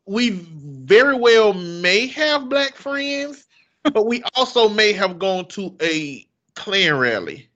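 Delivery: lightly put-on Southern twang; mock country twang. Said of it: "It got that twang".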